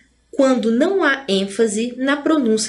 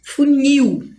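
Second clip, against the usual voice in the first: "Funil" higher, weight on final "nil"; stress on NIL; 4 semitones higher, 4 dB louder than usual. Shown as a demonstration. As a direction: demonstrate "Funil" with a strong last syllable. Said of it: "Aqui é dividido assim".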